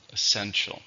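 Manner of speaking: "Essential" stressed es-SEN-tial; stress on second syllable. Shown as a demonstration. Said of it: "stresses on the second".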